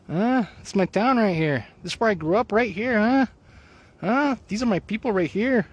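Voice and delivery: put-on playful, lifted Hispanic accent. Host showing off their hometown, in a playful Hispanic accent. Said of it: "I say it with a Hispanic accent".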